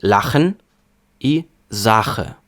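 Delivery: «Lachen», «Sache» with hard back ch, like «х»; твердий ch. Shown as a demonstration. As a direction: say ch as a hard Ukrainian «х». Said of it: "Один твердий «х»". (твердий «х» у німецьких словах)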